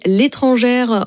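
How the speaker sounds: usual speaking voice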